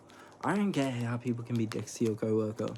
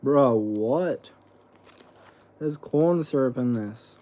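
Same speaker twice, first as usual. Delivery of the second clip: shocked; 2 semitones higher, 6 dB louder, slower than usual. Real, not acted. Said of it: "Oh no".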